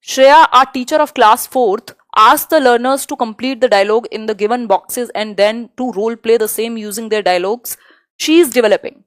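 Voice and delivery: slow, deliberate exam-question read. Acted. Teacher slowly reading the question to the class. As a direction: spell out each word for students.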